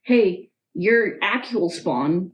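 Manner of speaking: half-joking, laughing it out; laughing through the words. Retold or imitated. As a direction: daughter mock-telling her mom with a laugh. Mock quote to mom, laughing.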